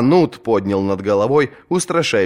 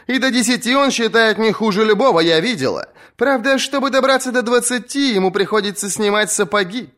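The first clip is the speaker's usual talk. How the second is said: put-on defiant young woman; 13 semitones higher than usual. Asha to the captains about her uncle, high mocking voice. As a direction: rouse the crowd while mocking the uncle.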